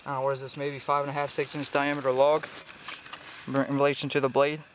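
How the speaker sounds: slightly winded while talking; out of breath. Real, not acted. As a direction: catch your breath between phrases. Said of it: "can hear him a little bit out of breath".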